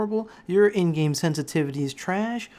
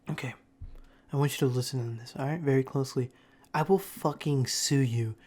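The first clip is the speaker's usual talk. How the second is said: lower, restrained mock-teacher threat; stern warning; 4 semitones lower than usual. Teacher warning class about a spitball, mock stern. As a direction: lay down the law in a lowered voice.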